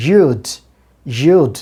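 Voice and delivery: you'd with strong y glide; careful drill of you'd; model pronunciation. Shown as a demonstration. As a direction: say you'd with buzzing y and long oo. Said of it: "চেষ্টা করেন এভাবে উচ্চারণ করতে".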